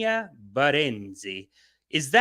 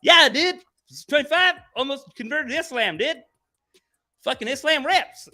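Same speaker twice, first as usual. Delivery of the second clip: bro voice; 11 semitones higher, 5 dB louder than usual. Retold or imitated. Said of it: "It's like".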